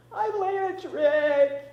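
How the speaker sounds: put-on high, loud, slow toddler wail; wailing child. A narrator's reading. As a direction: cry it out like a scared little boy. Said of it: "he wails".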